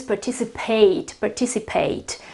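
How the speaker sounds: "participate" ending in a full "eight"; ending pronounced eight. Shown as a demonstration. Teacher repeats the verb for learners, clear "eight" ending. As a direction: let the end of "participate" rhyme with eight. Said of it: "But in any case".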